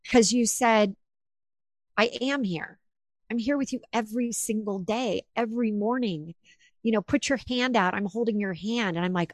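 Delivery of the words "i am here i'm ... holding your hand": soft retold reassurance; comforting. Mom comforting her daughter through the medium, softly reassuring. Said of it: "you gave me such comfort".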